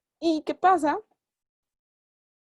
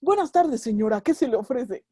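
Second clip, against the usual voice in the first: overly proper mechanic; 4 dB louder than usual. Pretend. Censored mechanic greeting a lady, prim and proper. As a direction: sound stiffly polite like a shop clerk. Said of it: "el mecánico no habla así".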